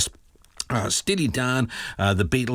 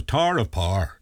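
lightly done Northern Irish lilt on the band name; a hint of Northern Irish, the band name rolled together; Northern Irish accent; slower than usual. Host laughing with listeners over the band name, light Northern Irish accent. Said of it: "in a Northern Irish accent".

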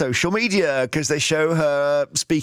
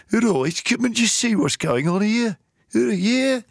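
higher, lightly put-on Birmingham accent; mimicked Birmingham accent; 8 semitones higher than usual. Relative chatting to her builders, in a light mock Birmingham accent. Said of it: "she hasn't got a Birmingham accent".

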